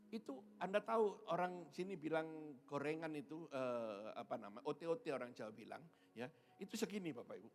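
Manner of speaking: ordinary talk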